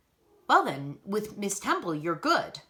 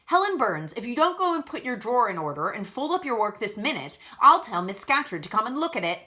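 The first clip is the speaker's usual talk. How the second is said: put-on Cumberland accent; 2 semitones higher, 3 dB louder than usual. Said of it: "exclaiming in a strong Cumberland accent".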